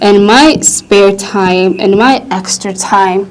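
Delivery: slow, drawn out alternatives; teacher offering slow example phrases; slow teaching phrase. Shown as a demonstration. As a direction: lay each option out slowly. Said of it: "ብላችሁ መግለጽ ይቻላል".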